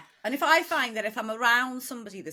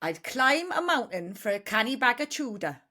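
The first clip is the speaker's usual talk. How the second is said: tentative Newcastle accent; copied Geordie. Shown as a demonstration. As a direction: have a go at Geordie. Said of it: "I'll see if I can do it".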